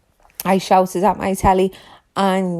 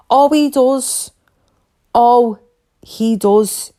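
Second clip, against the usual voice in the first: higher, louder mocking "Oh, he does"; sarcastic retort; 4 semitones higher, 4 dB louder, slower than usual. Real, not acted. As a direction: scoff back at the claim. Mocking retort to quoted claim.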